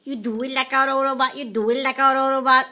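even, mechanical robot chant. Acted. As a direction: count off like a robot. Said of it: "Now what did I just say in a robot way?".

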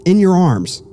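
mock spirit voice. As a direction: imitate a ghost's sing-song message. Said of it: "and then it goes".

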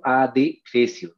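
slow "adefesio" as a-de-fesio; syllable by syllable. Shown as a demonstration. Teacher gives pupils an example, "adefesio" in slow syllables. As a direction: break "adefesio" gently after A and DE. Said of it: "cuando decimos".

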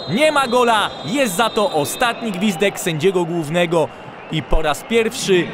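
ordinary talk, nothing marked

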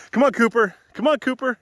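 high, loud dog call; yelling. Real, not acted. Calling Cooper along on the walk, yelling high. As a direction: holler high for a lagging dog. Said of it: "Sorry for yelling".

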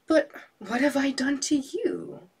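high, loud frightened question; desperate plea. Acted. Fisherman begging the genius for mercy. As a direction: cry out in fear.

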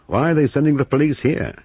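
high, alarmed question; sudden worry about the police. Acted.

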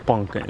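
"Pumpkin" as if with a blocked nose; stuffed-up little "Pumpkin"; stopped-up pumpkin. Retold or imitated. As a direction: imitate a kid's congested "Pumpkin". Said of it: "like you're all stopped up".

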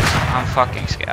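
slow, whispered fear; scared whisper. Real, not acted. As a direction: breathe it out scared and hushed.

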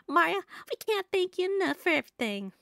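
grateful Southern mama voice; Southern accent. Acted. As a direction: gush thanks in a Southern accent. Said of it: "trying my best to talk in a southern accent".

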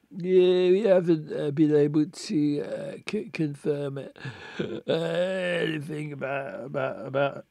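put-on slurred, stammering drunk man; halting, tipsy detective. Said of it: "reading him like a drunk man".

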